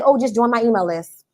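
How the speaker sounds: bland, offhand invite to the list; dull pitch. Shown as a demonstration. Coach showing the wrong way to pitch, dull. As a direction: toss it off like it doesn't matter. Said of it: "Don't say".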